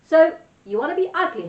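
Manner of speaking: hammed-up wolf mocking the girl. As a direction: tease her like a pantomime wolf. Wolf addresses Gertie.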